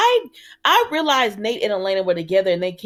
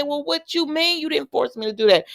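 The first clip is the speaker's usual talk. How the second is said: higher-pitched imitation of his disbelief; indignant comeback; 6 semitones higher than usual. Boyfriend challenging Elena's denial, indignant comeback. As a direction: throw the denial back at her.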